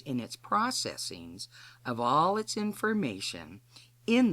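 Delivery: measured, deliberate delivery in short phrases; deliberate instructional read with weighted key words; formal scripted lecture. Real, not acted. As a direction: explain it carefully, pausing between phrases. Scripted teaching after the personal introduction.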